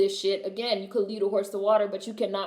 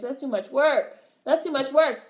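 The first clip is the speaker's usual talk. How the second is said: higher, mock-lazy complaint; mocking whine; 5 semitones higher, 3 dB louder than usual. Mocking people who won't read for themselves.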